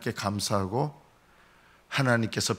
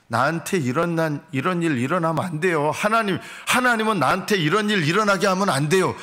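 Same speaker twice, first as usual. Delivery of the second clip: entitled complaint; 4 semitones higher than usual. Retold or imitated. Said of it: "이런 마음들이 깔려 있는 거죠".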